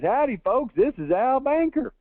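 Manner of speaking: put-on high, twangy Texas good old boy greeting; hammed-up Texas accent from a local insurance ad. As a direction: play up a Texas accent like a folksy radio host. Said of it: "the most pronounced Texas accent you could ever imagine".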